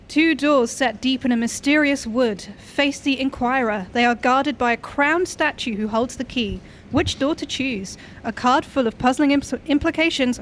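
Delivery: slow, deliberate card reading; reading aloud. Acted. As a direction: read it slowly like an oracle. Reads tarot card text aloud.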